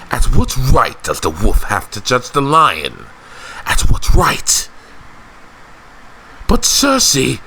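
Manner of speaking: affronted lord with swooping pitch; indignant noble. Acted. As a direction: protest in theatrical disbelief.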